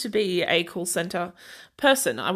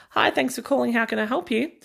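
slightly higher, lightly voiced phone agent; a hint of call-centre politeness; customer service greeting; 4 semitones higher than usual. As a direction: answer the call in a light work voice. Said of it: "answered a phone call and was like".

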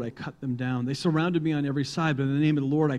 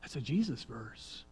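high startled whoa, then hushed; surprised realization; 4 semitones higher, 3 dB quieter than usual. Retold or imitated. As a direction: catch yourself in sudden discovery. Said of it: "you're going".

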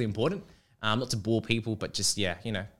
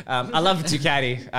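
Italian accent; 4 semitones higher, 8 dB louder than usual. Shown as a demonstration. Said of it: "So I'm saying it with the accent".

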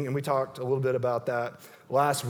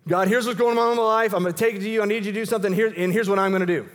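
raised, higher voice telling God the plan; loud imagined prayer; 4 semitones higher, 4 dB louder, much faster than usual. Pretend. Preacher voicing a demanding prayer, louder and higher. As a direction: press God with your own agenda.

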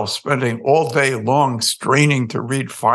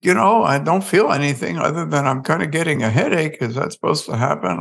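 1 hapless guy; 5 semitones higher than usual. Retold or imitated. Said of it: "And this dude is".

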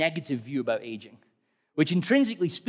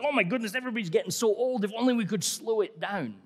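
mock lament; 5 semitones higher than usual. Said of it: "When we say things like".

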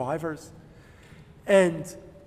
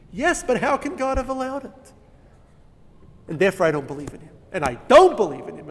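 forceful insistence; 4 dB louder, faster than usual. Retold or imitated. The unbeliever defending himself to the rabbi, forceful. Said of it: "they say it with such a force".

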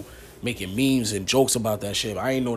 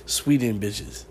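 slow put-on Swedish accent; much slower than usual. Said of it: "I was trying to do their accent".

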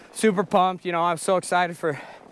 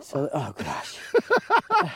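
cold hands; 4 semitones lower, much slower than usual. Real, not acted. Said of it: "I can't feel this thumb".

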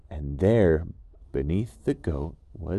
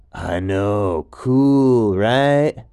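laid-back gecko; 10 dB louder, much slower than usual. Acted. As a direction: call up cheerfully from below. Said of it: "And the gecko said".

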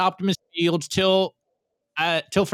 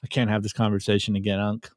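lower, much softer and fast, a tired mobster; weary Tony line; 9 semitones lower, 4 dB quieter, faster than usual. Retold or imitated. Host answers the nagging uncle in a tired, lower mob voice. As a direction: mutter it like a worn-out mob boss.

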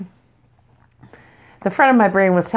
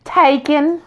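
put-on guy's question then girl's curt reply, pitched much higher; high-voiced quote; 8 semitones higher, slower than usual. Retelling the bar pickup line in a higher voice. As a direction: quote the exchange in a high bright voice. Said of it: "and he's like".

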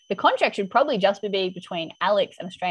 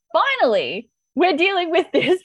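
exultant relief; 8 semitones higher, 5 dB louder than usual. Retold or imitated. Acting out her relief as viewer.

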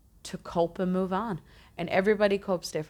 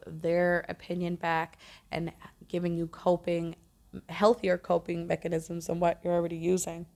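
hiccups. Real, not acted. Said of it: "I have the hiccups here".

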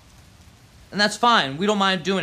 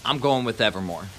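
sponsor ad read; 3 semitones lower than usual. Acted. Vlogger reading his sponsor's plug to viewers, upbeat ad voice. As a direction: pitch the dispensary like a radio spot.

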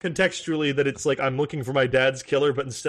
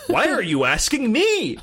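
disgusted; 6 semitones higher than usual. Retold or imitated. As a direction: sneer it back in disgust. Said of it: "react with disgust".

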